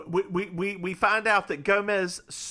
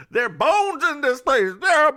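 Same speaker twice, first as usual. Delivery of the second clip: spooky; 9 semitones higher, 7 dB louder than usual. Acted. Spooky dramatic announcement.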